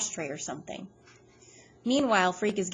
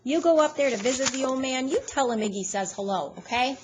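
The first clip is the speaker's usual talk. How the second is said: creepy; 6 semitones higher, 6 dB louder than usual. A narrator's reading. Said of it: "He gives me this creepy look".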